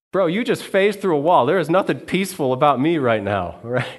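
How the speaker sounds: a comic "are you kidding me"; the disciple protests to Jesus that nothing feels peaceful; incredulous aside. Acted.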